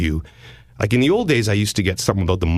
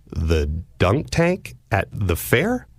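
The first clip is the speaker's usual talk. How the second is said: puzzled echo; much slower than usual. Retold or imitated. Confused echo of caller's question.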